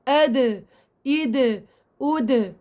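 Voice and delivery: أد إيد أود, each ending in a bouncing د; qalqala demo. Shown as a demonstration. Teacher demonstrating the د after each short vowel. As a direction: voice the د at the end of أد إيد أود with a rebound. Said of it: "عم بنطق الدال".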